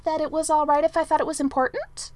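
hopeful, angling for approval; eager hopeful suggestion. A narrator's reading. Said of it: "Merlin said in a hopeful tone".

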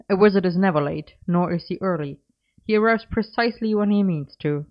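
light, fast, sing-song reciting; chirpy recitation. Acted. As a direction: chirp it like a quote you know by heart. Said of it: "he chirped, with the air of someone reciting".

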